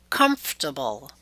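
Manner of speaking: "comfortable" stressed on the first syllable, COMF; exception stress pattern. Shown as a demonstration. Teacher gives an exception, "comfortable" stressed on first syllable. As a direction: hit COMF in "comfortable", the rest light. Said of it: "there will always be exceptions".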